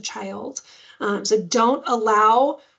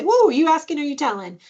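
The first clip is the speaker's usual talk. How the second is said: higher, swooping "whoa", then lilting; sing-songy, playful; 5 semitones higher, 4 dB louder than usual. Shown as a demonstration. Caregiver answering a child's demand, playful sing-song. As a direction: playfully sing the question at them. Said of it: "that sing-songy kind of playful voice".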